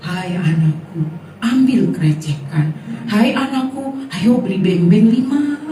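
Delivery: hint of a solemn heavenly voice, hammed up; a mild parody of God speaking from above; mock voice of God. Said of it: "suara Tuhan tuh nggak bilang gini".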